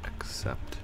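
mock sad. Real, not acted. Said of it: "I'm crying because of you".

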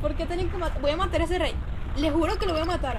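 loud, furious vow; angry. Real, not acted. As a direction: shout your revenge at the king. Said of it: "Estoy molesta".

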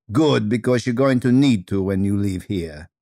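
lightly voiced Russian teacher; dry put-down with rich Russian vowels; Madame Fedra, Russian accent. Teacher advising a hopeless drama student, Russian accent. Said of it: "speaking with rich Russian vowels".

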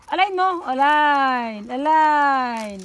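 firm loud dog command. Real, not acted. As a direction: bark the order at the dog. (malakas na utos)

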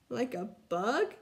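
disbelieving rising echo; echoing question. Acted. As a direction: repeat it back in disbelief. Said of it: "echoed Ronnie".

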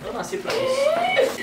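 very high, slow squeaky voice; helium voice. Real, not acted. Helium game.

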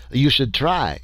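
little Frenchman exclaiming. Acted. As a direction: burst out with French excitement. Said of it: "exclaimed the little Frenchman".

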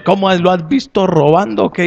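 acted-out scolding question; retold indignant challenge. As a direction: confront him in mock outrage. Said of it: "Y lo trató mal".

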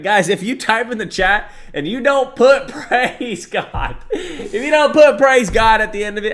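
high, loud laughing plea; cracking up mid-sentence. Real, not acted. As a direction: laugh through the words. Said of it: "I'm about to shed a tear".

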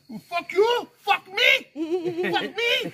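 high-pitched, indignant mock yelling; worked-up squawk of a retold row; retold angry quarrel. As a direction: throw the curses back in a high mock rage. Acted shouting match with store owner.

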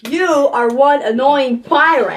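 slow drawn-out annoyed line; hammed-up annoyance; mock exasperation. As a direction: stretch it out exasperated. Exasperated at puppet.

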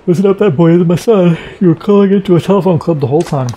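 man setting the kidnapper straight, loud and firm; forceful reveal. Acted. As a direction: lay down the facts hard. Character voice revealing truth.

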